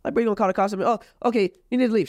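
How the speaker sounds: hammed-up girlfriend ordering him out; mock girlfriend voice. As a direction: parody her bossy tone up high. Retold exchange with girlfriend.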